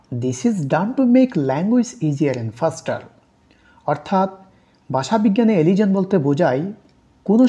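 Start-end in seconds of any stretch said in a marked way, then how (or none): 0.1-3.0 slow dictation. Shown as a demonstration. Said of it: "reading definition aloud slowly".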